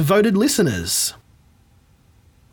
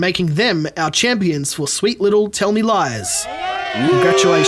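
excited shout; 2 semitones higher than usual. Real, not acted. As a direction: announce the champions with a big cheer. Announcing the quiz champions.

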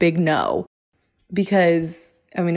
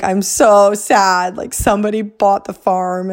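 bummed; 3 semitones higher, 3 dB louder than usual. Retold or imitated. Husband phoning wife that the farm sold, bummed. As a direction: stretch out the disappointment, lightly acted.

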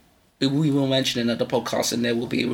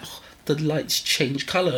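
imitated French accent. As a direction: put on a light, slow French accent. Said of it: "in her wonderful French accent".

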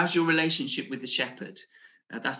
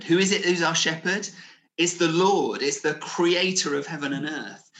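loud, rising preacher's proclamation; preaching at full force; 2 semitones higher, 4 dB louder than usual. Acted. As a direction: proclaim it over the congregation.

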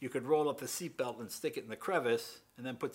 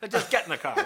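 loud, high, irritated order; pissed-off dad; 9 semitones higher, 10 dB louder, faster than usual. Retold or imitated. Dad orders his son into the car, loud and angry. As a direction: order it angrily as a fed-up father. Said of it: "Now my dad's all pissed off".

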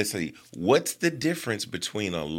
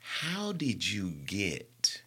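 whispered; 4 semitones lower, 5 dB quieter, slower than usual. Pretend. Dramatic question.

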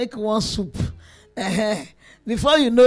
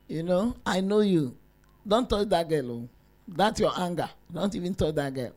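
mother-in-law warning; 7 semitones lower, 8 dB quieter than usual. Retold or imitated. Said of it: "my mother-in-law will say to the son".

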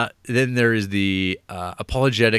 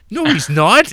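loud, high-pitched yell; acted high yell of denial; mock outraged shout; 11 semitones higher, 10 dB louder than usual. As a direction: shout it back, hammed up. Acted angry retort while strangling.

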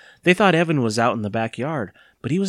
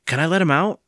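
put-on higher-pitched eager boy; 6 semitones higher, 4 dB louder than usual. A narrator's reading. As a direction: ask keenly, with raised pitch. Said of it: "Evan asked eagerly".

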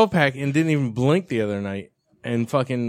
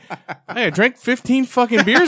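shocked realization; 8 semitones higher, 5 dB louder than usual. Retold or imitated. Retold shocked discovery counting beers.

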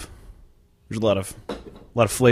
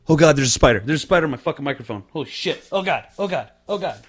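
screaming at a spider; 5 semitones higher, faster than usual. Real, not acted. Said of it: "your video of you reacting to that".

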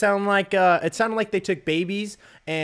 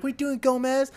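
much higher, shocked; incredulous call; 11 semitones higher than usual. Retold or imitated. Recruit shocked at Gomez peeing, high incredulous call. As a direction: call out in disbelief.

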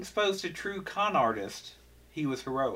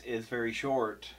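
dying ghost; 5 semitones lower, 6 dB quieter than usual. Retold or imitated. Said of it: "And he goes".

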